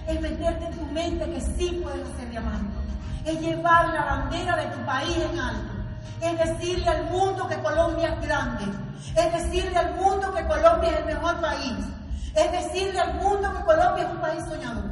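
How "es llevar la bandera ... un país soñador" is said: louder and higher with each line; rising from strong to full-force proud declaration; building patriotic oratory. Acted. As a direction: swell the voice like a rally speech. Patriotic climax of the speech.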